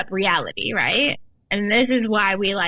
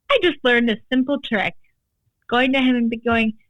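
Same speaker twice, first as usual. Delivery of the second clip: ordinary talk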